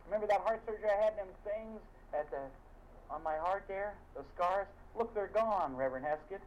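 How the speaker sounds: showing off his vanished scars; healed congregant. Retold or imitated. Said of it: "Someone says".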